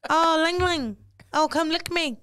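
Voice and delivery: hammed-up Asian-accented English; mock Asian accent. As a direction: put on a stereotyped Asian accent. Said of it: "This how the girls be".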